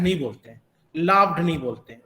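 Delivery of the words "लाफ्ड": लाफ्ड ending in a voiced "d". Shown as a demonstration. Teacher showing the mistake to avoid, लाफ्ड with a voiced d. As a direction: wrongly finish लाफ्ड on a d sound. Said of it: "ये नहीं कि हम ड की तरह pronounce करेंगे".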